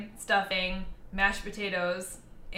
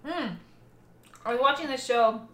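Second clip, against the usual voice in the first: crunching an ice cube; talking around an ice cube; mouth full. Real, not acted. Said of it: "I'm eating an ice cube".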